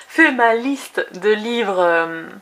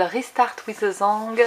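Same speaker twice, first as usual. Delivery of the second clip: French-accented English; 3 dB quieter, slower than usual. Real, not acted. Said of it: "avec mon super accent anglais".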